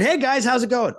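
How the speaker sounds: loud, very high-pitched cheery hello; hammed-up casual greeting to coworkers; breezy greeting. Walking into the busy install department, breezy greeting.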